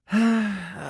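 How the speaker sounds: long falling sigh; tired sigh. Acted. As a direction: sigh before reluctantly answering. Tired, hesitant answer.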